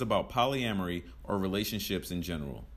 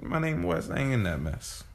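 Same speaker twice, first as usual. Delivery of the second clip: put-on drawn-out country accent; 5 semitones higher than usual. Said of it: "You have that be long drawn out".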